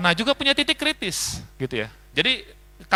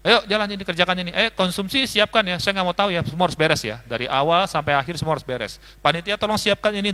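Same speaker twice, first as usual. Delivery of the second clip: bossy leader. Retold or imitated. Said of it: "cenderung ngebosi".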